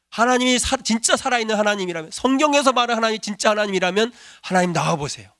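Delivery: desperate shouted challenge to God, retold from the pulpit; retold shouted prayer. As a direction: yell it up at the night sky, demanding an answer. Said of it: "소리를 질렀답니다".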